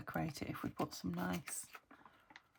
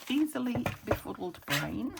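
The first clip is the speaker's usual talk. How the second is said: laughing; 4 semitones higher, 8 dB louder than usual. Real, not acted. Self-mocking laugh at her brain.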